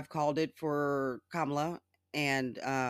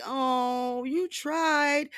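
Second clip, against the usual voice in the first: high, loud mock Trump whine; 9 semitones higher, 5 dB louder, much slower than usual. Mocking Trump to her viewers in a higher, louder whine. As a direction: sneer it out like a sulky Trump.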